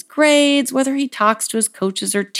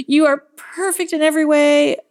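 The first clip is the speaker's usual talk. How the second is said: acted motherly adoration; 5 semitones higher than usual. Mom voiced praising her child.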